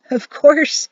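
high, loud, amused tone; lightly amused reply; mild chuckle. A narrator's reading. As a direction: say it with a touch of a chuckle. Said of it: "he chuckled".

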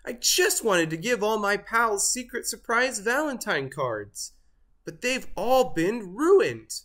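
high-pitched upset complaint; distraught turkey. A narrator's reading. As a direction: lament it as a turkey whose plan collapsed. Turkey wails about ruined plan.

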